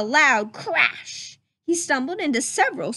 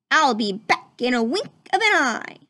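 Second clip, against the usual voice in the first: called out; 4 dB louder than usual. Acted. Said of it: "he called".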